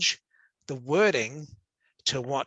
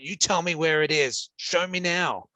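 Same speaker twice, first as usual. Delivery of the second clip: demanding tone; 3 semitones higher than usual. Retold or imitated. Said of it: "so demanding".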